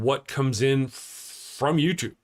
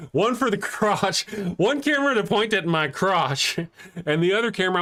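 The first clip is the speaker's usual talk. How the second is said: higher, laughing while saying it; laughing through it; 6 semitones higher than usual. Real, not acted. Joking about a crotch camera, laughing higher. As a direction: giggle the words out. Laughing at his own phrase.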